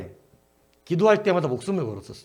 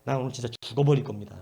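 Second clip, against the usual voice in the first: much softer, low pleading; hushed desperate prayer; 6 semitones lower, 6 dB quieter than usual. Retold or imitated. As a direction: pray under your breath, life on the line. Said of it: "밖에서 막 덜어내면서".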